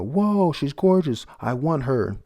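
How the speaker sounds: high, loud, slow hammed-up leer; leering crowd shout. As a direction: bellow it like a drooling spectator. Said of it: "they're, they're screaming".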